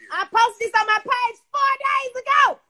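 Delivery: high, slow, emphatic shouting; indignant shout. Real, not acted. Streamer insisting to viewers she posted it, indignant shout. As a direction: shout every word out in indignation. Indignantly repeats point, escalating.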